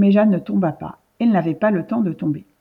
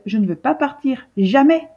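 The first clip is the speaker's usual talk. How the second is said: tearful protest; 5 semitones higher than usual. Acted. Girl refuses, near tears.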